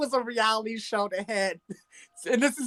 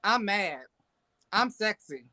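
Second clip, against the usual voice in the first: same understated tone for every emotion; name each feeling without acting it; Lisa Ray; 4 dB quieter, slower than usual. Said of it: "they can do a Lisa Ray".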